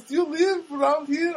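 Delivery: high, slow mock girl voice; put-on high-pitched girlish question; young Armenian girl. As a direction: imitate a young woman asking sweetly. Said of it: "there's this Armenian girl there".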